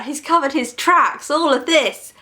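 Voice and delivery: stunned retold outburst; shocked exclamation. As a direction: keep the acted alarm rising. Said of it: "our woman says".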